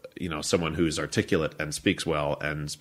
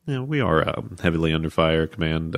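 calm pilot radio. Retold or imitated. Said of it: "they have to say things like".

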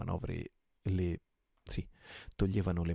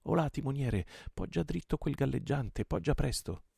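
higher, brisk command to the helmsman; order to helmsman; 8 semitones higher than usual. A narrator's reading. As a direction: bark the order across the deck.

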